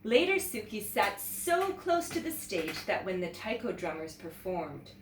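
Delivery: put-on lively read-aloud to children; teacher reads a picture book to young students, animated; storybook narration. A narrator's reading. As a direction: tell it like story time for kids.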